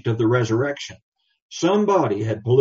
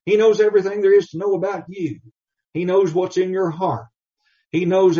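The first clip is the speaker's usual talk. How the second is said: fervent preaching; 5 semitones higher than usual. Real, not acted. Preaching builds.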